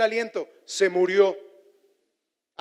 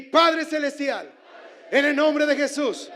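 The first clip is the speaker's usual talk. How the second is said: loud prayer; 4 semitones higher than usual. Real, not acted. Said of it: "con clamor".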